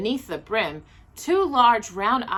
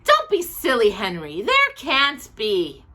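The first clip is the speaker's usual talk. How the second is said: higher, louder brush-off; scoffing wife; 4 semitones higher, 5 dB louder than usual. Acted. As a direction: wave off a silly husband. Wife dismisses husband's claim.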